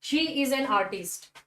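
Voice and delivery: slow, word by word; slow example read. Shown as a demonstration. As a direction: spell out the sentence slowly for the class. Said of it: "तीसरा देखिए आप example".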